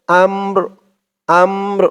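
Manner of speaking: আমর with the final র echoing lightly at the end; rolling final r. Shown as a demonstration. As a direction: let the র of আমর ring a little as you stop. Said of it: "আওয়াজটা লাস্টে একটু ভাসবে". (শেষে র-এর আওয়াজ একটু ভাসিয়ে আমর)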